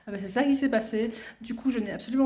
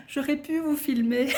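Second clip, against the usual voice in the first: laughing; 4 semitones higher than usual. Real, not acted. Laughing through her words.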